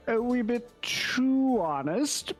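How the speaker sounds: a touch of a cheery fellow; lightly voiced adventurer. Adventurer vouches for the orc to the innkeeper, genial.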